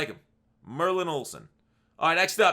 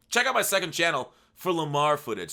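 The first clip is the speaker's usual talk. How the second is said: talking through a yawn; words stretched by a yawn; 3 dB louder than usual. Real, not acted. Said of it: "Sorry for yawning".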